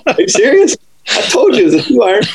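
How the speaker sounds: high incredulous complaint; mock exasperation. Caddy telling the pro he said two iron, high and incredulous. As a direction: sound wronged but amused.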